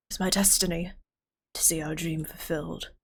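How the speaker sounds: breathy whisper of destiny; whispered vow. Acted. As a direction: whisper it like a sacred promise. Voices a game character.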